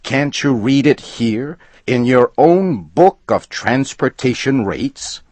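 high, loud, jabbing each item of the rule; angry reading. A narrator's reading. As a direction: read it out to shame him. Furious customer reads the rule.

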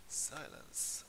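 hushed shushing whisper. Real, not acted. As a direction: hush the room in a whisper. Quieting the class mid-demo.

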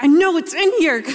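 high, loud comic insistence; mock exasperated accusation. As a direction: blurt it out loud, playing up the frustration. Frantic shake-down of the piggy bank.

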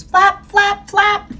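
squeaky high chant of flap flap flap; playful high-pitched flapping; flapping sound. A narrator's reading. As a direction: make each flap a little bird beat. Wings flapping in story.

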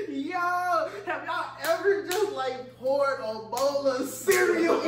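slow words through laughter; laughing. Real, not acted. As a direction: laugh while you drag it out. Recalling a gross smell.

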